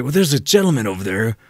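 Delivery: slightly slow, mock-indignant tattling; butthurt complaint. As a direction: imitate an upset customer complaining to management. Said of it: "all upset, all, all butthurt".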